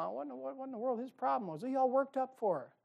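mock the bewildered hearer walking out; lightly voiced baffled congregant; puzzled churchgoer. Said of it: "invariably go".

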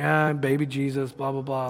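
acted ho-hum indifference; bored. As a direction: reel it off as if uninterested. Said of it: "Does this kind of bore you?".

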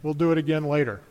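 a hint of a weary parent winding down; tired parent. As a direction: gently close the game like a tired parent. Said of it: "the parent finally has to say".

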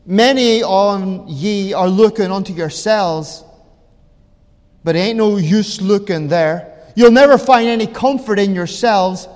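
imitated rustic Essex preacher; broad Essex accent. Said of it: "broad Essex, Essex accent".

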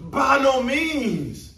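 slow, high, loud proclamation; booming slow declaration; emphatic declaration. Retold or imitated. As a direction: thunder each word out. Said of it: "Paul is yelling this out".

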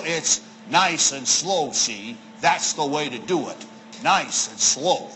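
low, slow robber voice, reprised; holdup man. Retold or imitated. Preacher applies the robber's line to Bible reading, low and slow. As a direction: drop low and stretch out "slow".

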